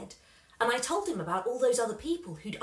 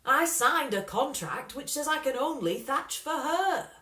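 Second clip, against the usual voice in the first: worried dad; 5 semitones higher, 5 dB louder than usual. A narrator's reading. Dad voiced by narrator.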